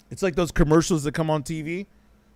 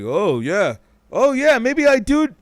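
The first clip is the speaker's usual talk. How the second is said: gullible viewer; 6 semitones higher, 5 dB louder than usual. Retold or imitated. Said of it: "People are just like".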